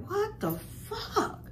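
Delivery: high, soft, slow laughing disbelief; shocked disbelief. Retold or imitated. Woman retelling seeing the Facebook posts, stunned half laugh. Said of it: "I'm like".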